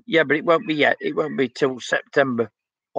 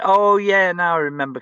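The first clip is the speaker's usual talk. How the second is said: surprised recognition; 3 semitones higher, 4 dB louder than usual. Real, not acted. Sudden recognition of a viewer.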